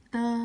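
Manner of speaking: เตอ with a plain unaspirated T; D as Thai ต. Shown as a demonstration. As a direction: start เตอ on a crisp ต, no puff of air. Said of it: "ดีออกเสียงต่อเต่า". (ออกเสียง เตอ ด้วย ต เต่า)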